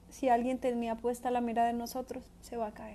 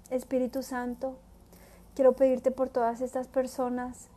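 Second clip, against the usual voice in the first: prayer; 3 dB louder than usual. Acted. Preacher leading listeners in prayer, earnest and devout. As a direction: pray it from the heart.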